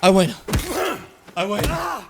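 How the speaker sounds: high repeated gloat. Real, not acted. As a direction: chant the win. Gloating victory chant.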